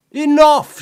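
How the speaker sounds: a high, loud roar of a single word; furious shout. Acted. Set silencing the jeering court, furious shout. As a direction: bellow to silence the laughing court. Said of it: "shouted Set".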